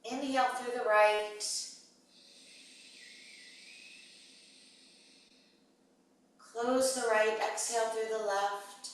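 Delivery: pace each cue to a breath, with long pauses; guided breathing cues. Real, not acted. Yoga teacher leading students through alternate nostril breathing, measured guided cues.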